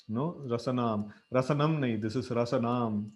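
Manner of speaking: "Rasanam" with the a stretched long. Shown as a demonstration. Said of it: "big A is there".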